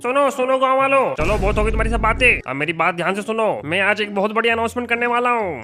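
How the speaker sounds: town crier. Acted. Sarpanch addresses the village.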